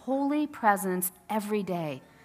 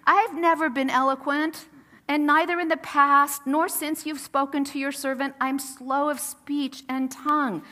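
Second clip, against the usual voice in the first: mildly whining, pitched up a little; whiny Moses; 3 semitones higher, 3 dB louder than usual. Acted. Moses making excuses to God about his speaking, whiny. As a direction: plead with a touch of a whine. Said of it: "I think this is in a whiny voice".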